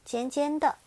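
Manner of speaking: ordinary delivery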